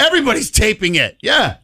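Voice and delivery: high, emphatic, laughing along; 興奮して同意; excited agreement. Real, not acted.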